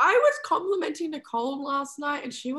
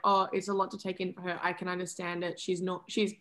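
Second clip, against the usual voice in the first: low, soft in-character reply; gentle understanding; 5 semitones lower, 4 dB quieter than usual. Acted. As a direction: play it understanding, voice kept down. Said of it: "and she's like".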